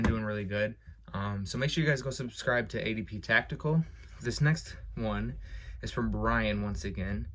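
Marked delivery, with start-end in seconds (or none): 4.2-7.3 slow, winded delivery; short of breath after a long read; running out of air. Real, not acted. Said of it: "I'm running out of breath".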